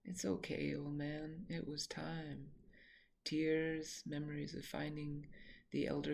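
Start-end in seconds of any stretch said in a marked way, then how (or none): 0.0-2.5 a quiet goodbye whispered to a beloved dog; tender whisper. Real, not acted. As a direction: hush it gently, letting him go. Comforting the dead dog Govinda.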